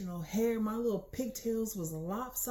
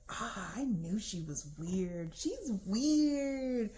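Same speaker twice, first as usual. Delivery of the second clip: imitating judgmental onlookers; slower than usual. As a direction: act out gawkers deciding she's weird. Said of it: "everyone's staring at me like".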